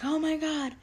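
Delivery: put-on gushing as if meeting an old friend; imitating the possessed elder. Elder greets the speaker as someone else, high put-on voice. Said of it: "She was like".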